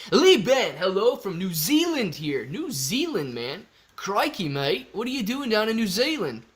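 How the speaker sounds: sing-song fake Aussie, swooping pitch; playful, badly faked Down Under accent; mock Australian accent. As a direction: put on a cheesy Australian accent. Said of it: "Is that Australia?".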